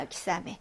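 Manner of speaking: 엑사멘 with a k closing 엑 and s opening 사; ks sound. Shown as a demonstration. Teacher sums up the x sound for students, 엑사멘 said with ks. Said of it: "요거를 바로 크스 발음이라고".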